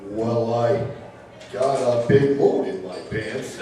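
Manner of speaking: low, slow drawling cowboy; a hint of John Wayne as a baby. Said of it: "I started doing John Wayne".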